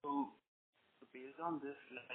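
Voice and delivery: very faint, far from the mic; barely audible. Real, not acted. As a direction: voice too low to hear. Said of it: "your voice is very low".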